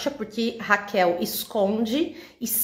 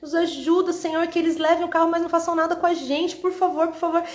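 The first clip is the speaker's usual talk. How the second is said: súplica aguda e lenta, voz bem mais alta; oração desesperada; 7 semitones higher than usual. Retold or imitated. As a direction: implorar a Deus em aflição. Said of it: "E eu falava". (oração aflita em voz aguda)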